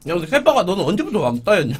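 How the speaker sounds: talking with mouth full; chewing while talking; messy loud eating. Real, not acted. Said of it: "입에 밥 넣고 말하는 거".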